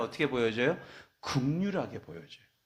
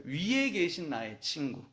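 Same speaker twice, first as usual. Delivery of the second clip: slow, tender, drawn-out hymn reading; slow tender recitation; slower than usual. Shown as a demonstration. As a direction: linger over each phrase like a prayer. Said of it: "참 표현을 어떻게 이렇게 했을까요?".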